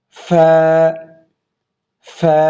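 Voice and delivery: ফা with a clear puff of breath on the f; airy fa. Shown as a demonstration. Teacher showing students the breathy fa. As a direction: let air rush out on ফা. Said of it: "বাতাস বের হবে".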